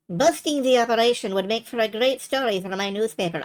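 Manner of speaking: badly attempted French accent drifting into Indian; French accent gone wrong; botched French accent. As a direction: do a poor French accent that slips toward Indian. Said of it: "Nico is suddenly Indian. I'm sorry, accents are hard".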